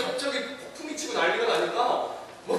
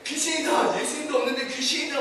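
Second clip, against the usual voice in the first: panicked cry; 4 semitones higher than usual. Acted. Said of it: "막 이러고 난리가 났습니다".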